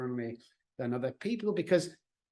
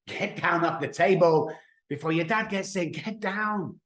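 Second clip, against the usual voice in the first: mom's warning tone; 5 semitones higher than usual. Retold or imitated. Mom warns her sons off the kitchen table, firm warning. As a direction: warn the kids down before dad comes home. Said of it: "she says in this tone of voice".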